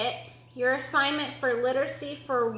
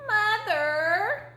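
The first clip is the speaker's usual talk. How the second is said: high, drawn-out little kitten voice; high kitten calling for mum; kitten calling mother; 9 semitones higher than usual. Acted. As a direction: call out plaintively as a small kitten.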